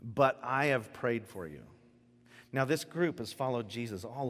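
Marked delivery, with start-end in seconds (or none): 0.0-1.6 tender. Acted. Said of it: "Just let that sink in".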